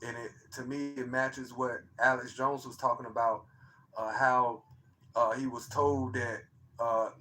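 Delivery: soft, low-voiced telling; talking low. Real, not acted. Telling the chat about the night he recorded it, talking low and soft. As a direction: keep it hushed, almost to yourself. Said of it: "I don't know why I'm talking so, so low".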